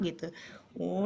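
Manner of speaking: normal talking voice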